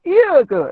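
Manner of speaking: "iya ke" as a high-pitched Malay question. Shown as a demonstration. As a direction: misread "iya ke" as if asking "really?". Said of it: "Macam tanya". ("iya ke" macam orang bertanya)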